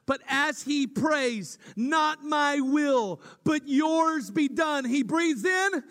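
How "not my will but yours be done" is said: anguished prayer. Acted. Jesus praying in Gethsemane.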